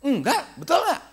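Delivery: hammed-up high child's denial. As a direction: mimic a defensive kid, squeaky and rising. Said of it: "Begitu kan?".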